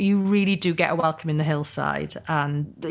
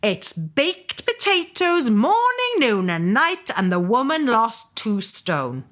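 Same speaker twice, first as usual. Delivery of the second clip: Welsh mum; 6 semitones higher than usual. Retold or imitated. Catherine's mum tells her dad about the diet, insistent lilt. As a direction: lean in and insist like a chatty mum. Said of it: "she says".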